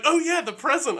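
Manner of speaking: high, loud burst of realisation; sudden remembering. Acted. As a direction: blurt it as it comes back to you. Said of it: "And then I'm like".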